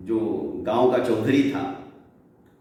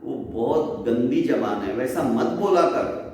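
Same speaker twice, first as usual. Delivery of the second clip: mother scolding son; 2 semitones higher than usual. Acted. Mother scolds her lazy son Dagdu, exasperated and rising.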